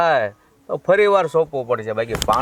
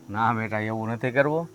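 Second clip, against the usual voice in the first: softer, soothing fatherly restraint; gentle calming; 2 semitones lower, 6 dB quieter than usual. Acted. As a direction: quietly talk the son down. Father calming his angry son. (શાંતિથી, નરમ અવાજે સમજાવતા)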